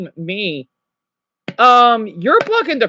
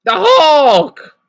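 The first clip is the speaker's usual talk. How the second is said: playful exclamation; 7 semitones higher, 7 dB louder than usual. Real, not acted. Joking about own strength.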